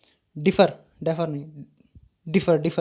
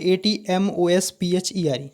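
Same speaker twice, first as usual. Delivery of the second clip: spelling it out; much slower than usual. Shown as a demonstration. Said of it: "एटमॉस्फेयर क्या होता है?".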